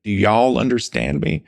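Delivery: a British teacher's mock Southern accent; mimicked Southern accent. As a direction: lightly imitate a Southern accent. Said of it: "he would kind of mimic a Southern accent".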